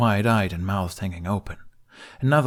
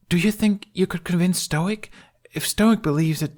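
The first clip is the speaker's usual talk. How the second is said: put-on higher hopeful boy voice; eager kid; 11 semitones higher, 3 dB louder than usual. A narrator's reading. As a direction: plead eagerly. Jamie eager.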